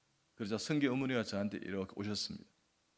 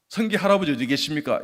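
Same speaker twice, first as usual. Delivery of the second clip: loud, raised-pitch call across a room; 4 semitones higher, 11 dB louder than usual. Retold or imitated. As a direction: call out for someone's grandfather, loudly. Calling out for the grandfather.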